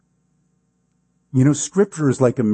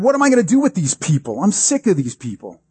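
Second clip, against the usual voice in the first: worked-up, imitated outburst of grievance; exasperated crying out; 2 semitones higher, faster than usual. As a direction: act out a leader venting to God. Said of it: "he cries out to God".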